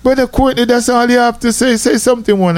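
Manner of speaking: impatient bishop. Retold or imitated. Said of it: "he was like".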